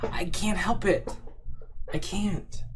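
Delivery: high, thin, slow protest; mock helplessness. Streamer answers about the noisy chair, mock helpless and high. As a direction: plead helplessly in a whispery high voice.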